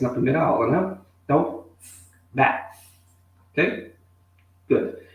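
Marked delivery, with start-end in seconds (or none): 2.3-2.7 bath with tongue between teeth, blowing air; teacher demonstrating English th; clear TH demo. Shown as a demonstration. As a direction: show the th in bath. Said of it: "Colocando a língua entre os dentes e assoprando".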